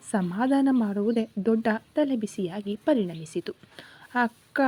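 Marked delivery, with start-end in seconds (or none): 4.1-4.6 drawn-out, mildly tearful call; a childish wail, understated; acted wail. Chikka crying to his sister on the phone, acted wail. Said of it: "ಅಂತ ಜೋರಾಗಿ ಅತ್ತ".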